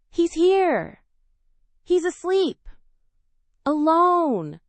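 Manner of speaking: high, loud rush of astonished joy; excited inner cry. Acted. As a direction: gasp it out, nearly shouting inside. Excited inner thought on finding Theo.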